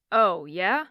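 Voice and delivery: mock-doubting male voice, looking down on her; condescending. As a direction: brush off her claim with a sneer. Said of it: "Gabriel's voice was condescending".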